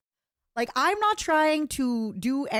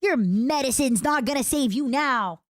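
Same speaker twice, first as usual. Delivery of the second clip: higher, louder gloating villain; villain threat; 4 semitones higher, 4 dB louder than usual. Acted. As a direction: gloat over the victim, sing-song. Villain line, first take.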